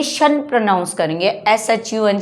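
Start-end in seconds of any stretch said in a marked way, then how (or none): 0.0-0.4 शन spoken as one short "shun" syllable; "shun" pronunciation. Shown as a demonstration. Teacher shows class how T-I-O-N sounds, शन as "shun". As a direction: say शन as "shun", sh plus short vowel. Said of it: "इसको हम क्या pronounce करेंगे".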